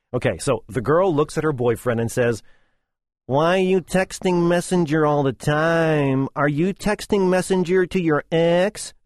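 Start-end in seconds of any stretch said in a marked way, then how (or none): 3.3-9.0 mock-whiny, dragging the questions; whiny girlfriend. Girlfriend nagging boyfriend at a cafe, mock-whiny. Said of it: "This is how it would sound if spoken in English".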